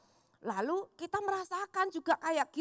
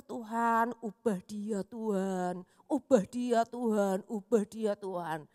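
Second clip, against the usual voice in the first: pleading prayer; 4 semitones lower, slower than usual. Retold or imitated. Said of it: "selalu berpikir".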